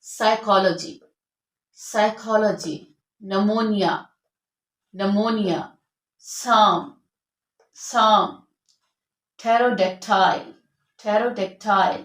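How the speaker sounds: साइकोलॉजी, pneumonia with no p sound; silent p. Shown as a demonstration. Teacher models silent p words for the class. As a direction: start pterodactyl on the t. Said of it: "तो यहाँ पर हमारा पी silent होगा".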